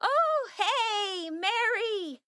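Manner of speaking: high, jittery cover-up; nervous. Acted. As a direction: caught out, talk fast and high.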